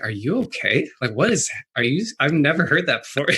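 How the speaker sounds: mildly startled, concerned questions rising in pitch; a touch of alarm, imitated; shocked partner. Katie walks in on the screaming, shocked. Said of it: "She was very shocked".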